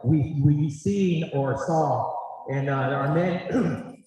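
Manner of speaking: slow, breathless after dancing; catching breath between words. Real, not acted. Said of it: "sorry, I'm catching my breath".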